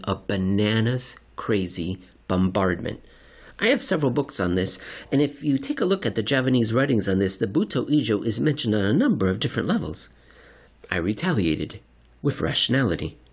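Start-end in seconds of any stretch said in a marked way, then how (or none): 3.6-10.1 fast, eager conspiracy talk; rambling crank. Acted. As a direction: rush it like a know-it-all crank. Seatmate character voiced.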